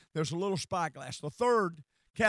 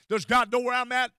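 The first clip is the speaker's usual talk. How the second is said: higher, louder demand for an answer; pleading question; 5 semitones higher, 8 dB louder than usual. Retold or imitated. Churchgoer in trouble asking after God, pleading. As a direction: cry out the doubt.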